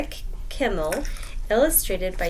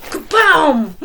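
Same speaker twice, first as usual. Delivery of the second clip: shouted Kaboom, higher; loud boom; 8 semitones higher, 12 dB louder than usual. A narrator's reading. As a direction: crash it out. Sound effect.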